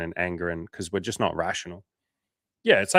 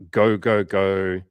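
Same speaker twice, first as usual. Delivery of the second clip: loud urgent chant of go; mock frantic hustle chant; 6 dB louder, much slower than usual. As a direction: push hard like a drill coach. Mimicking frantic hustle urge.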